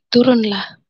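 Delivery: a man's voice, lightly voiced, calling her down. Woman retells a man's voice calling her down, lightly voiced. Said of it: "saya dengar suara seorang laki-laki".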